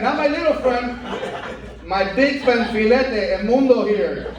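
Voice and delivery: lightly voiced menacing tough guy; a hint of a threatening gangster; hostile Latino. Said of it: "the hostile Latino".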